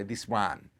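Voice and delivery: "This one" in Italian-accented English. Shown as a demonstration. Demonstrating a limited stock of words, Italian accent. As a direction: say it as an Italian would, "one" like "wan". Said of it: "and I can say".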